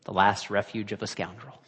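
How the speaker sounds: N=Lisa Simpson/character; quoting Lisa Simpson. Retold or imitated. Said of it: "Lisa Simpson said".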